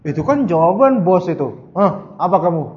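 a hint of a sassy kid; cheeky modern reply. Today's child answering parents back, lightly mocking.

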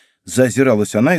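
ordinary delivery, nothing marked

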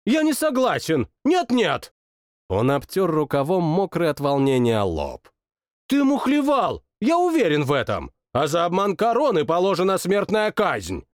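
high, indignant royal accusation; a sore loser king cries foul; petulant king. Acted. King accuses his cousin of cheating, high and petulant.

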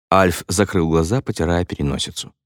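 normal talking voice

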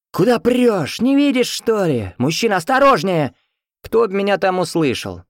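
high, indignant yelling; crowd protest. A narrator's reading. Jostled crowd to the man pushing through, high yelling. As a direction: yell it like a jostled bystander.

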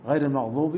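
"المغضوب" said almost like "المغدوب", ض near د; ḍād overdone as dāl. Shown as a demonstration. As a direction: exaggerate the ض until it sounds like a د. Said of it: "كأنه يقول دال".

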